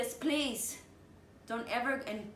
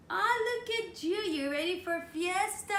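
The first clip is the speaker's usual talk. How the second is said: mock white lady; 9 semitones higher, 5 dB louder than usual. Guest retells a customer greeting her at work, high mock voice. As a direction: pitch way up and louder, a gushing stranger. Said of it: "I hear someone".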